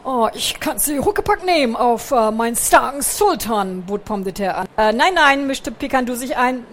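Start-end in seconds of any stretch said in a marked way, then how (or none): 0.0-3.8 Pomme de Terre. Acted. Pomme de Terre bietet Hilfe. 4.8-5.5 hastiger Einwurf. Acted. Pikandu fährt eifrig dazwischen.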